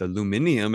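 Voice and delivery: aluminium with the extra "i", al-u-MIN-ium; British pronunciation. Retold or imitated. Guest borrows their word for the metal, British pronunciation. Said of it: "as they call it".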